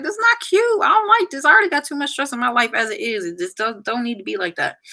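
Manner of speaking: sassy. Retold or imitated. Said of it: "I was like".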